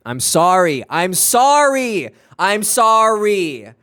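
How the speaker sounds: slow, drawn-out apology yelled high and loud; hammed-up shouted sorry, stretching each word; yelled mock apology.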